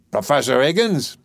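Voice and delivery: vigorous dustman demanding the professor; dustman's voice. Acted. Doolittle the dustman's voice.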